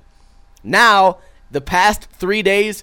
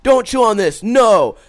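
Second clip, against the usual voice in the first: retold yell; 6 semitones higher, 4 dB louder, slower than usual. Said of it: "Yelled at him".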